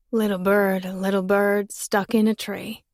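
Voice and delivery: a lightly voiced boy, tender; soft teasing rhyme. Boy teasing the girl with a rhyme, softly. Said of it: "he smiled softer".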